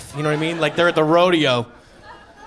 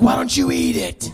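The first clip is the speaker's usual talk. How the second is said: mock villager; 8 semitones higher than usual. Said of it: "they were like".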